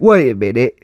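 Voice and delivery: imitating a puzzled Brit; baffled mock-British voice; British accent. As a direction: stop short in a British accent. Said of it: "somewhere in the U K".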